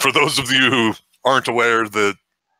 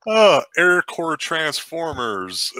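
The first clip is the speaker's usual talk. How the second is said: laughing; 7 semitones higher, slower than usual. Real, not acted. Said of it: "Still laughing".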